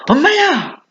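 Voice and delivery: imitated startled yelp, pitched high; startled cry. Someone startled, crying out for mom: high mock yelp. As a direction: jump and yelp as if spooked. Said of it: "어떤 사람이 깜짝 놀라서".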